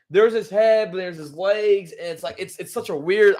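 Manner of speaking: real fan excitement over Luffy's new form; excited. Real, not acted. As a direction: gush like a fan who can't believe it. Fan reacting to Gear Fifth reveal.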